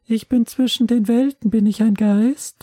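a bewildered new ghost, drawn out; ghost mother. Pretend. Freshly killed mother asks if she is a ghost, high and bewildered.

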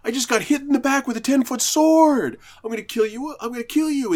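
high furious shrieking boss; enraged boss yelling. Retold or imitated. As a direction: scream it like a stung giant. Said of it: "And then".

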